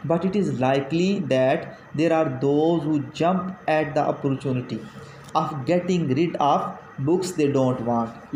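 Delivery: slow, measured reading of a text; reading aloud. Acted. Teacher reading a passage to students, slow dictation-like reading. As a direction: read it out slowly, word by word.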